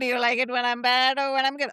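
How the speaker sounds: light imitation of a suitor's Indian accent; dramatic Indian accent. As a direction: replay his line with a hint of Indian accent. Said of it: "in your dramatic voice".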